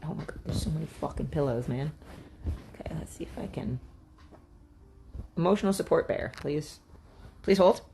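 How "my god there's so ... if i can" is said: soft whisper to herself. Real, not acted. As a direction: whisper it under the breath.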